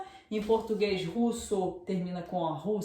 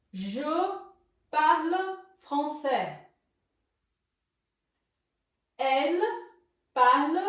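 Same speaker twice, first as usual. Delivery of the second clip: slow dictation; 4 semitones higher, 3 dB louder, slower than usual. Shown as a demonstration. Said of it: "pra vocês aprenderem a pronunciar".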